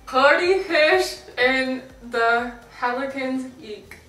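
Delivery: words pushed through a mouth stretcher; lips stretched. Real, not acted. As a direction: talk with your lips pulled wide. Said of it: "My mouth hurts from that".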